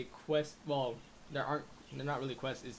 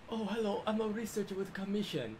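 high, exaggerated broken Asian accent; 8 semitones higher than usual. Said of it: "I did a broken Asian accent on that one".

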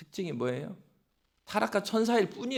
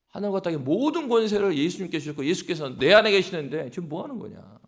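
bold rebuke; 4 dB louder than usual. Acted. Believer rebuking Satan.

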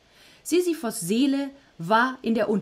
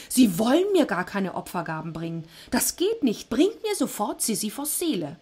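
angry Hades; 3 semitones higher than usual. Acted. Hades angry at getting no offerings, mock fury. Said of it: "rief Hades wütend".

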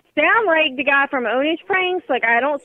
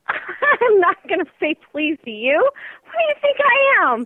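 indignant refusal; 3 semitones higher than usual. Real, not acted. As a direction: refuse in real outrage.

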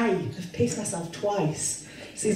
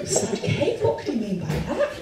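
mock puzzled.

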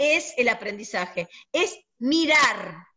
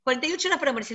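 higher, pleading voice of a distraught friend, half-acted; retelling a friend's panicked call, mock tearful and higher; imitating crying friend; 6 semitones higher than usual. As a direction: mimic the friend begging the doctor through tears. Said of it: "ella llorando me dice".

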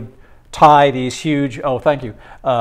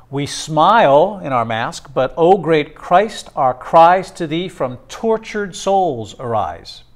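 slow, solemn recited lines; a touch of prayerful poem recitation; poem reading; 2 semitones higher than usual. Acted. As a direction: lift the plea with weight, slowly. Quotes the poem again.

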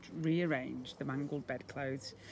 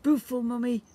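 put-on high, louder baby coo; 9 semitones higher, 8 dB louder than usual. A narrator's reading. Baby coos lovingly at its mother, high baby voice. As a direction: coo it like a tiny toddler. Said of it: "cooed the baby".

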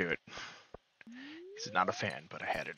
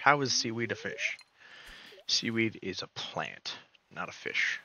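indignant; 5 semitones higher, 5 dB louder than usual. Real, not acted. Outraged at seaweed counting as fish.

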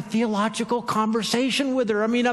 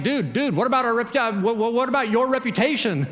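flustered, stammering protest; comic alarm, tripping over the words; mock panic; 2 semitones higher than usual. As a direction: imitate a panicking follower. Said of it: "like, panicking".

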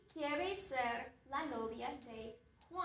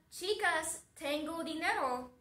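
a mild, somewhat loud call; yelling; 2 semitones higher, 4 dB louder than usual. Acted. Juan calling out to the girls in the store, mild yell. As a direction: call out to the shoppers, not too hard. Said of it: "Cuando Juan grita".

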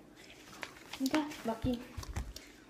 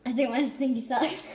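laughing; 3 dB louder than usual. Real, not acted. Giggling at gross bean.

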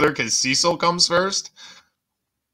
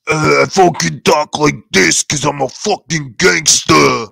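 louder mock tough-guy voice, mocking her; mock gangster talk; 6 dB louder than usual. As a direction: sneer it out like a wannabe gangster. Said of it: "And then she goes to, like".

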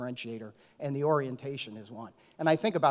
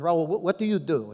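lightly put-on French accent, a bit louder; 3 semitones higher, 5 dB louder than usual. French CEO questioning the steward Raul, light French accent. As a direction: imitate the French CEO's accent in a friendly question. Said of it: "so I'll try to do the accent".

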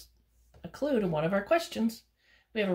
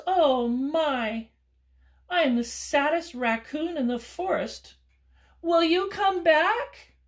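loud, high, pleading raccoon; a hammed-up sad little raccoon; 8 semitones higher, 7 dB louder, slower than usual. Raccoon begging goose to come back, hammed-up sadness.

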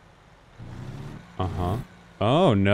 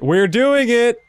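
excited; 10 semitones higher, 4 dB louder, slower than usual. Real, not acted. Backing the truck in successfully.

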